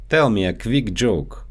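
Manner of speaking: quick said as "kvick" with a v; Russian-accented "quick" as kvick; quick joke with a Russian kv. Shown as a demonstration. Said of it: "so they often get mixed up in English".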